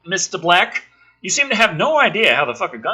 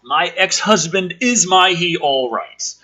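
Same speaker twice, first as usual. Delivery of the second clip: slowed, mocking reread of the line; mock incredulous reread; 3 semitones higher, 4 dB louder than usual. Rereading the script's line to her cohost, mocking. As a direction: repeat the line as if it makes no sense. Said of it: "ask him that".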